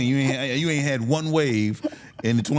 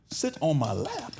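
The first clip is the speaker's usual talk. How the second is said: slow, higher-pitched disbelieving question; incredulous echo; 5 semitones higher, slower than usual. Retold or imitated. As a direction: repeat it slowly as a baffled question. Repeats father's order in disbelief.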